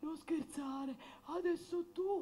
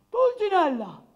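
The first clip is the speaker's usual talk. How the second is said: calling out loud; 8 dB louder than usual. Acted. Death calls out.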